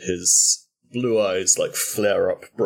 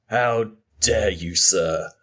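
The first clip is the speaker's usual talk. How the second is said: cold fury; slower than usual. Acted. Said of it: "all trace of his, like, happy-go-lucky, upper-class British accent have gone".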